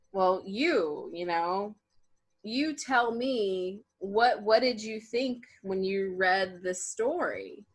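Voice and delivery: slow, drawn-out teacher voice; mock condescending professor; imitating the professor. Quoting the professor.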